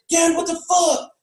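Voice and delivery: high mock yell at dad; imitated high-pitched shout; son's shouted protest. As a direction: cry out in hammed-up outrage. Acts out son yelling at dad.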